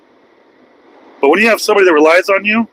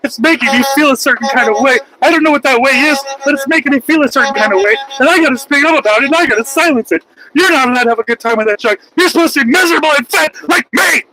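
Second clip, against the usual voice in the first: mocking whiny Karen; 7 semitones higher than usual. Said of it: "Now it's".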